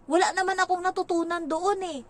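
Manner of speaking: put-on high kid voice; high bored child voice; childish complaint. Child complaining about school.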